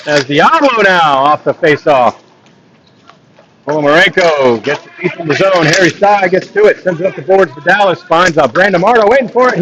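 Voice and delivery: steady running hockey commentary; live play-by-play. Acted. Commentator calling the game for stream viewers, live play-by-play. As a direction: call the puck movement as it happens.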